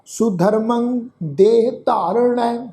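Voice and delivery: slow, measured Gurbani recitation; scripture recitation. Shown as a demonstration. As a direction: draw out each word of the verse. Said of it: "ਇਸ ਦਾ ਉਚਾਰਨ ਕਰਦੇ ਹਾਂ".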